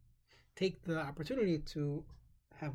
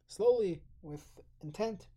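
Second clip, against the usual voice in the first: slow and deliberate; 2 semitones higher, 5 dB louder, slower than usual. Shown as a demonstration. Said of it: "the entire Shema should be said".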